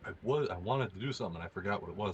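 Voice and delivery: muffled, like shirt over face; talking through cloth. Real, not acted. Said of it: "You're talking like you have your shirt over your face".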